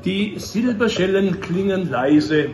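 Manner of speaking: spaced-out closing verse; solemn recital winding down; poem recitation. Acted. Recites the poem's ending.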